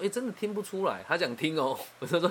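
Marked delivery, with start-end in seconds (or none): 0.0-1.0 high-pitched retold astonishment; imitating an amazed listener; surprised. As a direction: react with genuine-sounding surprise, voice jumping up. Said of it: "然后就很惊讶说".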